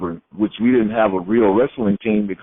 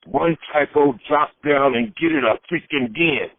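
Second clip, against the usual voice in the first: mildly pissed-off quote, pitched higher; retold exasperation; 4 semitones higher than usual. A wrestler repeats his call to a stubborn opponent, mock exasperated. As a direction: imitate a fed-up opponent without raising the volume. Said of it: "he got so pissed".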